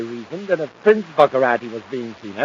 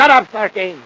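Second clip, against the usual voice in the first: higher, louder angry order; angry snap; 8 semitones higher, 10 dB louder than usual. Acted. Villain snaps at henchman.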